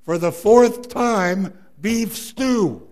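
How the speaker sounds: loud, high, slow and fed up; exasperated retort. Retold or imitated. Wife answering her husband for the fourth time, exasperated and loud. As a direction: hurl it back at him, annoyed.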